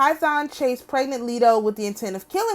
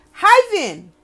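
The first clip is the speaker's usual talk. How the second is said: exclaimed; 7 semitones higher, 6 dB louder than usual. Shown as a demonstration. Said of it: "repeats the cry with emphasis".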